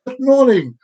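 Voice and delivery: mock hyper morning hello; over-bright, punched greeting. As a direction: parody someone far too chirpy. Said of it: "you're like hyper".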